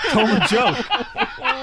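slow, high, insistent mock demand; Norm Macdonald. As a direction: draw out the order, half laughing. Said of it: "Don't embarrass me".

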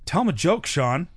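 high-pitched retold prodding; Norm Macdonald. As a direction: push an embarrassed friend to perform, playfully. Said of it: "Don't embarrass me".

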